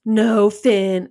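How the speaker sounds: imitating a bored older brother; drawn-out, uninterested reply; incredibly bored. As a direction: wearily humor a pestering sibling. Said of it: "like, sounding incredibly bored".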